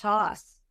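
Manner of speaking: "hoss" with an open "ah" and no R; Boston "hoss". Shown as a demonstration. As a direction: say "hoss" as in another part of Boston. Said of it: "from a different part of Boston".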